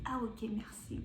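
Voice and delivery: breathy whisper, barely voiced; whispered thanks. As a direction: whisper a shy little thanks. Thanking the two ladies quietly.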